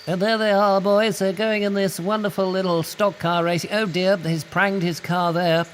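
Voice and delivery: high, bright newsreel announcer voice; hammed-up old Pathé News voiceover; old newsreel narrator. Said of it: "old-time voiceovers from the Pathé News".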